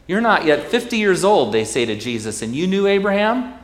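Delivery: loud, high scornful demand; indignant challenge. Acted. Crowd scoffing at Jesus, loud and high. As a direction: throw the question at Jesus in outrage.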